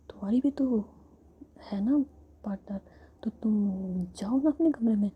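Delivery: close-mic whisper, voicing each character gently; whispered story. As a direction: tell the whole tale in a hushed whisper.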